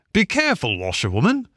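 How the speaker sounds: high, warning cry to the driver; warning call. A narrator's reading. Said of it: "call out warningly".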